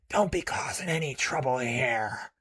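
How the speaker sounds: uncouth space pirate threatening the player; thick uncouth accent. Acted. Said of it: "in a thick and uncouth accent".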